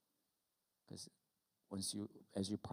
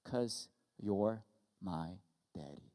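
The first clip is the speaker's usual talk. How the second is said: put-on tender child's answer; slower than usual. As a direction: let it land gently, word by word. Daughter's tender punchline answer.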